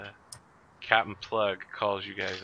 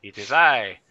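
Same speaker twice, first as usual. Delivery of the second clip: high, grand dandy villain; mustache twirling villain; 5 semitones higher, 14 dB louder, slower than usual. Acted. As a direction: preen and announce yourself like a rogue. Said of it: "twirling his mustache".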